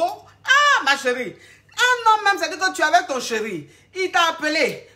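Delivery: high laughing exclamation; amused incredulous laugh. Real, not acted. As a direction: laugh in disbelief at her. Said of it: "laughs at her".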